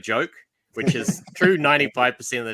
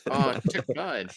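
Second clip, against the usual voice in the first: Wrecker impression; 2 semitones higher, 4 dB quieter, slower than usual.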